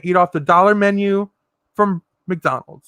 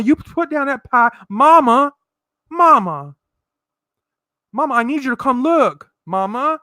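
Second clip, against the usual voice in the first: calling out to mama; 2 semitones higher than usual. Pretend.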